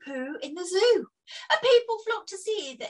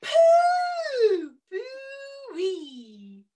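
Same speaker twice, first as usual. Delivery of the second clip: high loud yelp of disgust, then a pinched groan; disgusted cry; 10 semitones higher, 4 dB louder, much slower than usual. Acted. Reader recoiling from zoo poo, disgusted cry.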